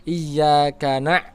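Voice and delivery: "iyyaka na-" stopped abruptly in the throat; cut-off ain. Shown as a demonstration. Teacher shows what to avoid, "na-" cut short. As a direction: choke off "na-" without letting it flow. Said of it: "seperti itu jangan ya".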